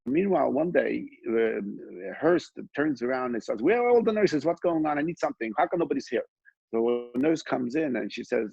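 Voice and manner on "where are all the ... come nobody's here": a grumpy patient barking for service; cranky entitled patient calls for nurses; demanding old man. Retold or imitated.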